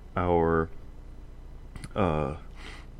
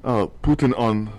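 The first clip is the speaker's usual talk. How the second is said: put-on Russian accent; 3 semitones higher, 4 dB louder than usual. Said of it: "now I am also speaking in a Russian accent".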